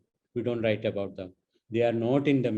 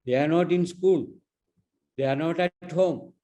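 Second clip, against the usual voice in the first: scolding rant; 2 semitones higher than usual. Retold or imitated. Woman scolding the minister.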